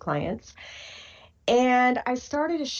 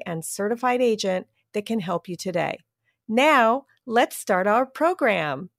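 ad read. Acted. Sponsor ad read.

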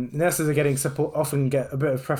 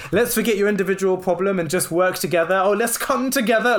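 mock dreamy, rising higher at the end; airy fairy; 5 semitones higher than usual. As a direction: lampoon the feel-good platitude. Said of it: "this kind of airy fairy".

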